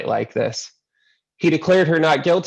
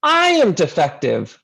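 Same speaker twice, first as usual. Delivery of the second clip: a hint of a Greek accent, a touch higher; lightly voiced Greek grandmother insisting; 5 semitones higher than usual. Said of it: "she cried in her thick Greek accent".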